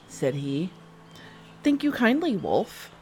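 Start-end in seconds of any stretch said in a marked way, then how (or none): 1.6-2.9 put-on little girl voice. Girl answers wolf.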